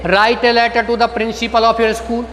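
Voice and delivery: slowly, word by word dictation. Shown as a demonstration. Teacher dictates example questions slowly, word by word. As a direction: dictate each word for students to write. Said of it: "dictating slow to students".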